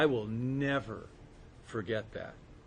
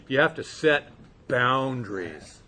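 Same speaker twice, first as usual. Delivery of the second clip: mocking slogan; 7 dB louder than usual.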